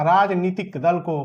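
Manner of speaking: "राजनीतिक दल को" said slowly, word by word; slow emphasis. Shown as a demonstration. Teacher repeating "राजनीतिक दल को" slowly for students to memorise. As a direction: drill "राजनीतिक दल को" in slowly so it sticks. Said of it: "याद रखना".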